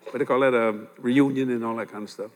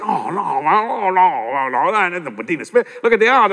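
doubting objection; 3 semitones higher, 5 dB louder than usual. Retold or imitated. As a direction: play the scoffing racegoer who won't believe it. Crowd doubting his Derby pick.

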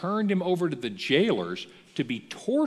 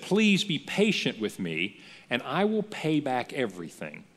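pleading. Retold or imitated. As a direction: plead on your knees for more time. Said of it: "The servant fell on his knees and said".

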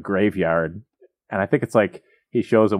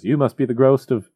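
mock Scrooge; 4 semitones higher than usual. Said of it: "Scrooge goes".

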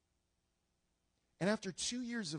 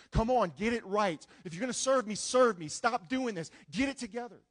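stern scolding God; 5 semitones higher, 6 dB louder than usual. Retold or imitated. Scowling God voiced.

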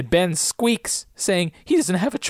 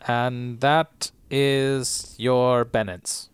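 slow solemn judge; much slower than usual. Pretend. Pronouncing a mock sentence.

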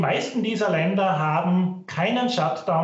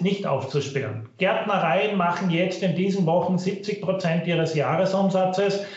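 low quality stream. Real, not acted. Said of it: "Bitte entschuldigen Sie die Tonqualität".

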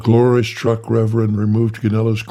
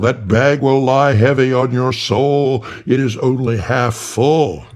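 thundering angel voice; 4 semitones higher, 3 dB louder than usual. Acted. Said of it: "thundered Gabriel".

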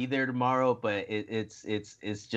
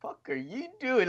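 imitating Aja Kong; 9 semitones higher than usual. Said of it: "Aja Kong's like".

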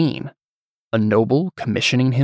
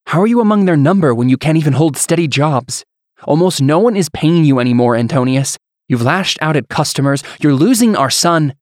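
higher, louder, building fury; angry accusation; 5 semitones higher, 4 dB louder than usual. Acted. Wife berating husband over money and son, rising anger. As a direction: pile the blame on him.

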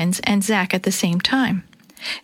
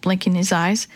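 usual speaking voice

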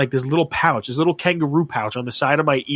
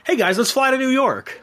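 high, goofy player whine; silly high mock voice; 10 semitones higher than usual. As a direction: pitch it way up like a clueless player.

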